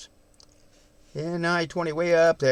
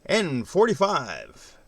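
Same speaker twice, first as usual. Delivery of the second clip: slow drawn-out DJ style call; slower than usual. Shown as a demonstration. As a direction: announce it like a radio DJ. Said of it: "Get the D J voice happening".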